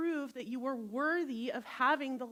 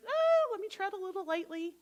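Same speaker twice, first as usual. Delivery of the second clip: mock wariness; 7 semitones higher, 5 dB louder than usual. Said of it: "you're like".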